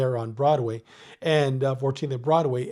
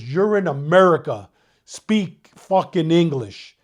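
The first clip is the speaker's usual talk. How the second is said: retold captain's bark; 6 dB louder, slower than usual. Captain barking in elevator.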